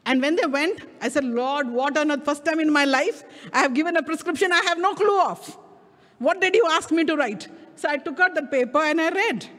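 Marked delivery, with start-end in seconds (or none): 1.2-7.5 retold bewildered appeal, pitch climbing; baffled protest. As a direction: question God in mock exasperation. Acts out baffled questioning of God.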